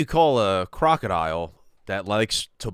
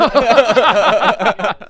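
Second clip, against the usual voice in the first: loud laugh; 11 semitones higher, 10 dB louder than usual. Real, not acted. Likes friend's joke answer.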